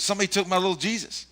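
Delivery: quoting Bill. Retold or imitated. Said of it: "He goes".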